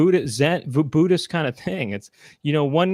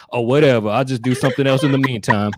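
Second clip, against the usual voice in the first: lower, louder offhand dismissal; Laura; 4 semitones lower, 4 dB louder than usual. Retold or imitated. Mimicking friend giving up on the plea, mock indifference. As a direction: drop the plea, mock shrug-off. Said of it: "This is you, Laura".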